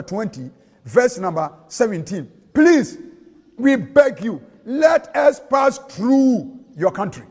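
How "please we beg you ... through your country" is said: pleading. Acted. Israel begs the king of Edom.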